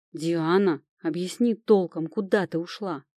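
mild nervous growl at Diana. Acted. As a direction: demand an answer, tense and worried. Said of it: "нервно прорычал Тирон".

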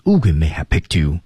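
weak, reduced "may have"; may have pressed down. Shown as a demonstration. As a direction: tuck "may have" under "picked you". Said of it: "把may have尽量压下去".

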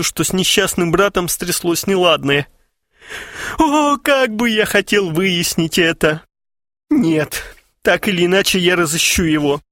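high, pleading through tears; lightly voiced weeping brother; tearful. A narrator's reading. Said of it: "закрыл лицо руками и заплакал".

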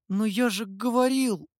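high-pitched, timid self-justification; lightly voiced clerk on the defensive; defensive excuse. A narrator's reading. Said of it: "начал было оправдываться писарь".

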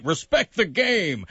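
mock a grumpy traditionalist; old man voice. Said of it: "saying it in that old man voice".

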